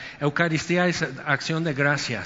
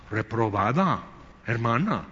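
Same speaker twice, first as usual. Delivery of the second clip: lower, dry judgmental pronouncement; mock stern verdict; 5 semitones lower than usual. Preacher mimicking judgmental churchgoers scolding a sad sister.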